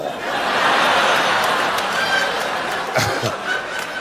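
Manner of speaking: high unvoiced squeal of laughter. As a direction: cackle it high and breathless. Hysterical laugh at phone.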